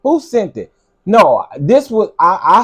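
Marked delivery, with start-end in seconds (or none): 0.0-0.7 demanding to know who sent it; incredulous repeat. Real, not acted. Streamer asks chat again, incredulous. Repeating the question, louder and higher.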